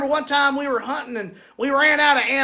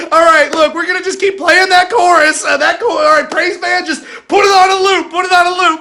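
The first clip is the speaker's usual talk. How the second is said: loud, higher exasperated commands; hammed-up exasperated shout; frustrated shouting; 4 semitones higher, 6 dB louder than usual. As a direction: yell at the band to loop it. Pastor yelling at praise band.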